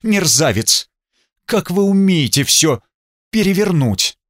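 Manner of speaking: flaring up, high and indignant; angry outburst. Acted. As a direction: snap at him in sudden fury. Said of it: "Вдруг вспылила".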